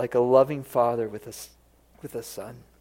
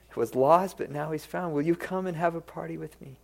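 pleading father; 3 semitones higher than usual. Acted. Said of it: "he pleads with him".

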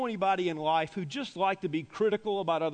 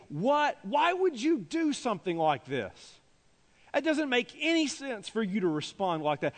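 high, indignant mock scolding; acted strong rebuke; 3 semitones higher than usual. Preacher voices disciples humiliating Mary, an acted rebuke. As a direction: act out a public telling-off. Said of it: "the strong rebuke".

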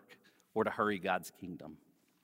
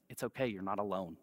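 reassuring; 3 semitones lower, 5 dB quieter than usual. Acted. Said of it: "to remind us".

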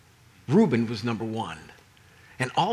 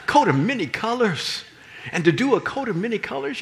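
laughing; 9 semitones higher, 4 dB louder than usual. Real, not acted. Laughing high exclamation.

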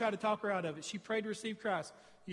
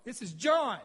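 retold yell; 3 semitones higher, 5 dB louder than usual. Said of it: "I yelled out to the yard".

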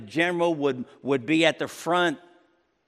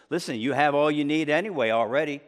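mock congratulation, lightly sarcastic. Paul mocking the Corinthians' kingly pride, with sarcasm. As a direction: needle them for thinking they have it all. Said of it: "this is the sarcasm".

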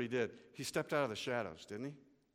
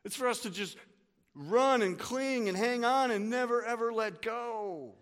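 impassioned; 8 semitones higher, 5 dB louder than usual. Acted. Preacher urging desperate clinging.

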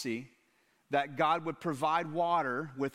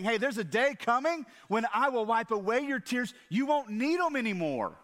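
reassuring promise; 7 semitones higher, 4 dB louder than usual. Retold or imitated. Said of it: "He's saying".

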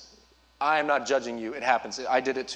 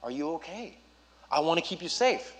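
concerned dad. Retold or imitated. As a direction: comfort a child held close. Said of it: "I'm holding him tight".

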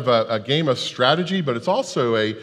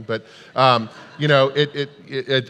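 coughing fit. Real, not acted. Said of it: "I'm coughing a lot and correcting my throat".

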